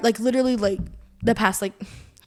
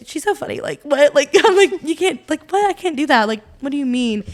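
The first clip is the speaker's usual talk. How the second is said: laughing disbelief; 4 semitones higher than usual. Retold or imitated. Amused disbelief at the video.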